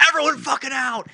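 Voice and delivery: high, loud urgent imitation; retold shouted order. Imitating driver ordering friends out, urgent yell. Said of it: "Connor's like".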